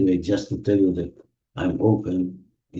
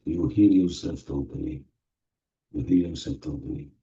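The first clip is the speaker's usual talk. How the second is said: guided meditation. Acted. Meditation leader guiding the group through healing, soothing. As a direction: ease them into the feeling, unhurried.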